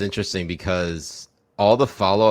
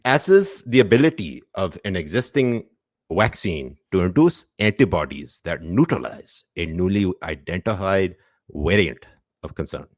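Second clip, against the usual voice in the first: put-on Pakistani accent. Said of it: "Pakistani accent".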